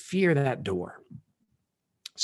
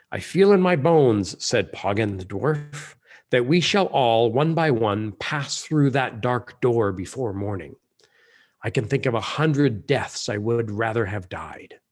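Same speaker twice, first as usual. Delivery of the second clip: grim dwarf; 5 dB louder than usual. Acted.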